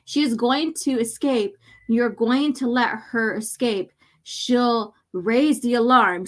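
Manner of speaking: slow, taunting accusation; taunting inner voice. Acted. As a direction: taunt him slowly and coldly. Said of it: "goes on to say".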